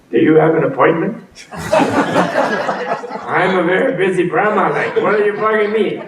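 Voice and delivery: lightly voiced impatient god, laughing; brushed-off busy god. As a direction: wave him away like a busy boss. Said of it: "And what does Brahma say? He said".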